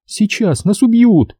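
высоко и медленно, с ужасом; выдохнуть в страхе, медленно. A narrator's reading. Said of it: "побелели от страха". (девушка в ужасе предупреждает Колю)

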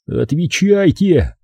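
slow, high-pitched plea; pleading. A narrator's reading. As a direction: beg for an answer, stretching it out. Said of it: "взмолился я".

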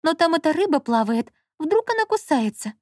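a touch of alarm, pitched high; fearful Lola. A narrator's reading. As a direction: fret about being bitten. Lola fears the fish.

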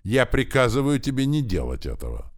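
high, loud order; commanding shout. A narrator's reading. Wife orders her husband to stop, shouting. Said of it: "кричала Лилайна".

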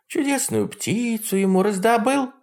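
high mocking old witch; Baba Yaga voice. A narrator's reading. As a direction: sneer like a jealous hag. Yaga asks.

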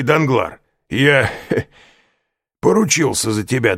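high, loud tipsy laugh mid-line; laughing drunkenly. A narrator's reading. Caderousse laughs while vouching for Danglars. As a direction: chuckle through the words like a drunk.

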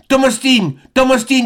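high calling shout; child's cry. A narrator's reading. Robert calling to Tom Austin on the ship, high calling shout. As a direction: call out to the man on deck. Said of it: "un cri de Robert".

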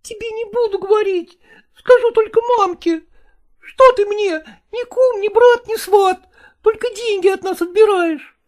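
put-on a child sulking through tears; angry tearful boy. Boy grumbling at his stepfather through tears, high and sulky. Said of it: "пробормотал сердитый сквозь слёзы".

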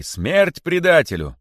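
high, loud, drawn-out slogan; crowd's shout. A narrator's reading. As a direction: cry for punishment as a mob. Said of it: "закричали кролики". (протяжный крик толпы)

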